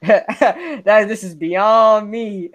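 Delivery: slow, laughing lament; drawn-out mock despair. Real, not acted. Fan joking to chat about his despair, slow and laughing.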